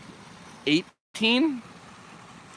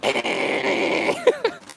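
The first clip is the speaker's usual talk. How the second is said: high mock black metal shriek; black metal screech. Streamer spoofing a black metal video, screeched. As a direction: screech out a parody metal vocal. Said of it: "Are you about to record a black metal video".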